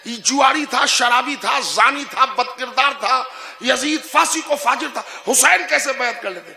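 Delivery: sing-song imitation of a sly persuader; mock sweet argument. Preacher to congregation, mimicking those who argue sweetly. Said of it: "جیسے بڑے پیار سے کہا جاتا ہے".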